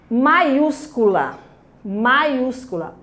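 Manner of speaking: "maiúscula" very slowly, weight on ús; slow, careful "maiúscula", stressed on ús; stress on antepenultimate syllable. Shown as a demonstration. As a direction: model "maiúscula", stretched around the syllable ús. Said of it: "antepenúltima sílaba".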